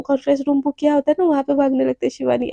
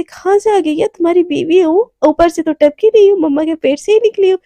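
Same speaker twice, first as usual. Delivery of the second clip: indignant retort; 3 semitones higher, 5 dB louder than usual. Acted. Indignant retort in acted quarrel.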